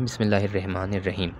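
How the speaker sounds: बिस्मिल्लाहिर रहमानिर रहीम with light ह and thin रा; common wrong recitation. Shown as a demonstration. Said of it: "बहुत सारे लोग बिस्मिल्लाह को इस तरह से पढ़ते हैं".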